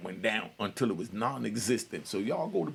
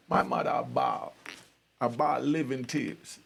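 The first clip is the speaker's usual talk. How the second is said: Jamaican patois. Shown as a demonstration. Son showing how Jamaicans describe his mother crying, Jamaican accent. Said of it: "what we call in Jamaica".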